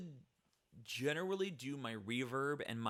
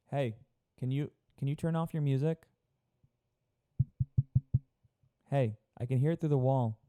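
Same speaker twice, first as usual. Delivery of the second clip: yelling through a wall; 5 dB louder, faster than usual. Acted. Mock yelling at a neighbor.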